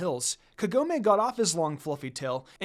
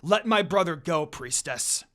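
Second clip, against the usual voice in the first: louder, menacing demand; growling threat; 3 dB louder than usual. Acted. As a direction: warn her off your brother. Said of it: "growled at the evil undead priestess".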